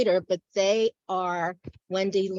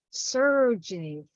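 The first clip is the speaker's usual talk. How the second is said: "surging" at ordinary volume, falling at the end; poetic recitation. Acted. Poet first voicing the river's surge, restrained recitation. Poem repeats word, building.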